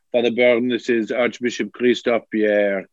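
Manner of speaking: a hint of a French-accented archbishop, formal and polite. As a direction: imitate the French archbishop on the voicemail, lightly. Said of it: "a man with a French accent".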